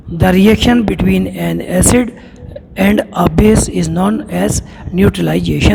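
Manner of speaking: slow, careful textbook reading; reading a definition aloud. Acted. Teacher reads the textbook definition to students, slowly and deliberately. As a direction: spell out the definition word by word for students.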